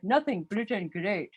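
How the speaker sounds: put-on understated Indian-accented cover-up. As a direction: play innocent in an Indian accent. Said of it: "the Indian guy would be like".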